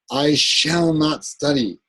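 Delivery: I shall not study, with shall stressed and slow; emphatic reading. Shown as a demonstration. Teacher demonstrating the book's emphatic len, emphatic. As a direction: say it like a forceful vow. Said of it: "with an exclamation point".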